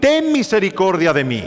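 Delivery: crying out. Retold or imitated. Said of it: "comenzó a dar voces".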